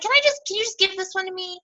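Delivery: very high, pleading whine; mock self-pity. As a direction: beg like someone at their own pity party. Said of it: "many pity parties, and I'll say".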